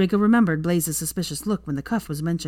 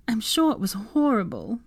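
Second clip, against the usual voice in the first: higher-pitched commiseration; sympathetic; 6 semitones higher than usual. A narrator's reading. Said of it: "she said sympathetically".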